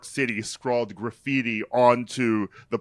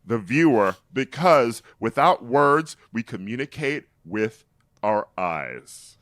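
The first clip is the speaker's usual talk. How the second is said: emphatic, projected dramatic reading; theater actor; 3 dB louder than usual. Retold or imitated. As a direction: declaim it like a self-serious stage actor. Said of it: "from a theater actor".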